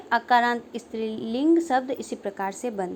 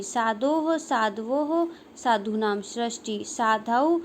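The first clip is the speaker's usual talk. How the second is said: declension recitation. Shown as a demonstration. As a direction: recite a Sanskrit declension table, form by form. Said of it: "किस प्रकार से उच्चारण होगा". (शब्द रूप का लयबद्ध पाठ)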